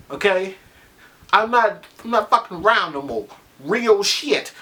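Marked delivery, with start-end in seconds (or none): 1.3-4.5 mock tough talk. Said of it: "I don't talk like that".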